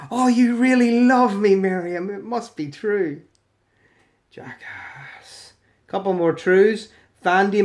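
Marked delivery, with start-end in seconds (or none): 0.1-3.2 mock gushing. Threatener thrilled by Miriam's forced love, mock gushing. 4.3-5.5 drawn-out whispered insult; muttered contempt. Real, not acted. Verdict on the commenter, whispered with contempt. Contemptuous aside after the skit.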